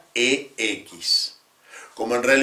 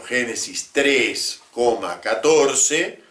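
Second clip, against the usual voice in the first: slow dictated citation; slower than usual. Shown as a demonstration. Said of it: "Por ejemplo".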